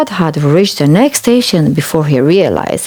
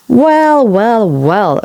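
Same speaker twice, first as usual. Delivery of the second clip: teasing chuckle; 5 semitones higher, slower than usual. A narrator's reading. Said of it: "chuckled Edward".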